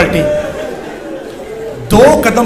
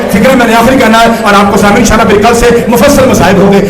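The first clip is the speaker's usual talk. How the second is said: raised voice over a mourning congregation; impassioned preaching; 3 semitones higher, 6 dB louder than usual. Real, not acted. Preacher reassuring weeping mourners, impassioned and loud. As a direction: call out fervently to the mourners.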